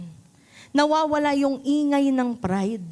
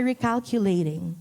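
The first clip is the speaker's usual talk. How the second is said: calm navigation voice; 3 semitones lower than usual. Retold or imitated. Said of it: "mahinahon sasabihin ni Waze".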